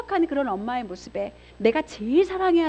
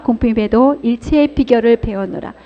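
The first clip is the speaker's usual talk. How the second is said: louder, measured Bible reading; solemn scripture read; 6 dB louder than usual. Acted. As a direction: read the verse out to the congregation. Reads the scripture passage aloud.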